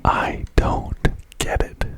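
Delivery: each word of "don't get it" stressed slowly; slow emphatic whisper. Real, not acted. Telling viewers they don't get it, slow emphatic whisper. Mock exasperation, repeating for emphasis.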